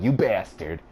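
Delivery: mild, playful mock insult; joking insult. Shown as a demonstration. Showing how he jokes with somebody, light joking tone. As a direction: toss the insult out teasingly, understated. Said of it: "obviously from my tone, I'm clearly joking".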